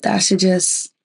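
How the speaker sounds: talking through a swollen throat. Real, not acted. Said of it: "excuse my voice; my throat is, like, swollen".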